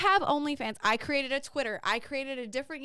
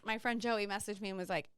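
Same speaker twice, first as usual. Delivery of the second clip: whisper; 3 semitones lower, 8 dB quieter than usual. Real, not acted. Secretive gossip about friend.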